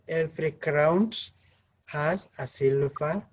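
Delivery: "every crown has a silver" with each phrase lifting; rising intonation. Shown as a demonstration. Teacher showing the proverb's preposition, rising intonation. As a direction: raise the pitch on "crown" and at "silver", pausing after each. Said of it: "said with a rising intonation".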